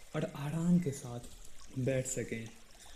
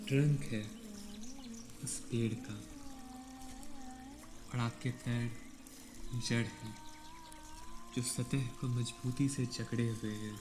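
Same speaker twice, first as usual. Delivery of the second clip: calm meditation guide, long pauses between phrases; guided meditation; 3 dB quieter than usual. Real, not acted. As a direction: ease them into stillness, leaving space after each instruction. (शांत ध्यान निर्देश, ठहर-ठहर कर)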